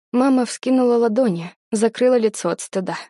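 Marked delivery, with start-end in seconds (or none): none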